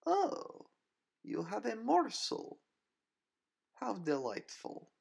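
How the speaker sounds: a predator toying with her prey; Nina's cool, mocking voice. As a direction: villainess purring her taunt. Nina mocking.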